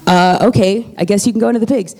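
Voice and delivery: casual, offhand okay; chill. Retold or imitated. Jesus answers the begging demons, chill and offhand. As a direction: give permission with a relaxed shrug in the voice. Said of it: "Jesus is so chill about it".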